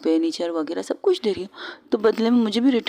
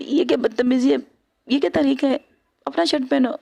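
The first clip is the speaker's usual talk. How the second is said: indignant outburst; 6 semitones higher than usual. Acted. Shirt thrown at her face.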